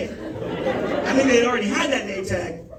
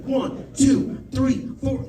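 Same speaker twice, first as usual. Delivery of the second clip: dispatcher counting off the compressions, raised; counting aloud; 2 semitones higher, much slower than usual. Retold or imitated. Dispatcher counts CPR beats for the caller, firm count. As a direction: call the count steadily over the phone. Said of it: "He's like".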